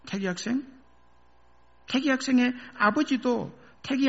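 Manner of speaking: gentle counsel. Acted. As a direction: coax him kindly to remember.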